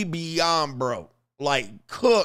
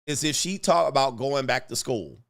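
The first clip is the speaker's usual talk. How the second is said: usual speaking voice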